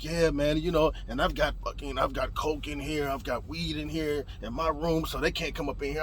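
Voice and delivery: low, soft roommate voice; confiding. Retold or imitated. Roommate admitting to drugs in his room, confiding. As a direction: say it low, confessing on the side.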